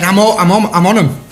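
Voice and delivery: mock indignant protest; going nuts. Teammate claiming the penalty, mildly going nuts. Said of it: "he was going nuts".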